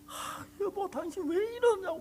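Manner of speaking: lightly voiced wife begging him to calm down; wife's plea. Wife stops the husband. (높은 목소리로 말리는 아내 흉내)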